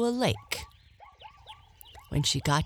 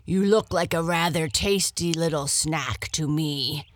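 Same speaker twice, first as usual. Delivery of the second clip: growl; 4 dB louder, faster than usual. Acted. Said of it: "growled the lion".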